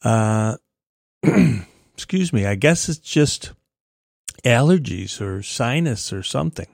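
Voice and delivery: slightly raspy, reedy voice. Real, not acted. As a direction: talk with a touch of rasp. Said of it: "pardon my raspy readiness".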